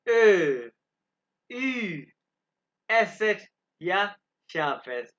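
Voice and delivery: each German letter name said loud and clear, one by one, with a pause after each; German alphabet recital. Shown as a demonstration. Teacher reciting the German alphabet aloud for students. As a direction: spell out the German alphabet slowly for the class. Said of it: "अब मैं इसको दोबारा pronounce करूंगा".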